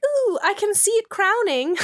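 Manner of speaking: high, thrilled falsetto; excited dad. Retold or imitated. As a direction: coo it like a proud new father. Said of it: "our beholder's like".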